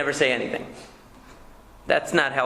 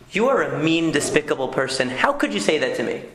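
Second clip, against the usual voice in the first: mock accusation. Shown as a demonstration. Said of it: "come to you and say".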